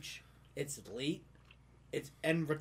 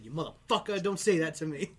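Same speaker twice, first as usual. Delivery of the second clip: retold angry outburst, louder; mad retort; 3 semitones higher, 7 dB louder than usual. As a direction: act out telling a guy off. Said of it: "I got mad at one guy".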